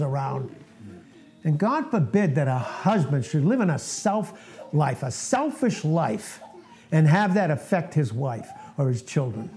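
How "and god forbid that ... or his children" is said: chuckling through the words; real laughter breaking into a sermon point; laughing. Real, not acted. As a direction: laugh while you warn about selfish husbands. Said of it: "I'm laughing because".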